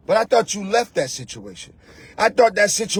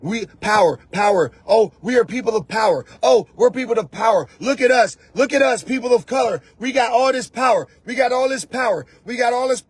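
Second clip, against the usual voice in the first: mock boasting. Mocking empty boasting, shout heard.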